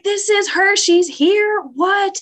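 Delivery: high-pitched, thrilled disbelief; amazed delight. Retold or imitated. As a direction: react as if you can't believe she's really here. Retold amazed reaction to meeting baby.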